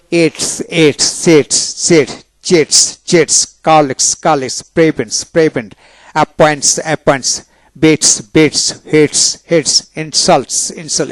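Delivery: এটস closed on "t" plus a hissed "s"; dental S ending. Shown as a demonstration. Teacher drilling S after T, dental S demonstration. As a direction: end সেটস on a dental "s". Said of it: "টি এর পরে এস থাকলে দন্তাস্য".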